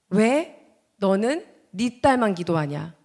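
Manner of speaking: slow, measured question leaning on 딸만 with a rise; God's question, slow. Retold or imitated. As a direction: let 딸만 rise, each word deliberate. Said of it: "주님이 저한테 ... 말씀을 하시는 거예요".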